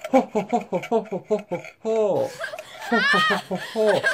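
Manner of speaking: mock-villain ho-ho-ho chuckle; staged gloating laugh. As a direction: chuckle in a steady, pretend gloating ho-ho-ho. Gloats over eating giraffe.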